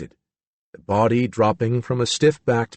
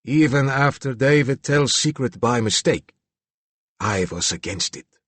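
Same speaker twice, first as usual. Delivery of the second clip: put-on stern Slavic accent; grudging Slavic accent; 3 semitones higher than usual. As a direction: Slavic accent, stubborn and firm. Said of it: "rich Slavic accent".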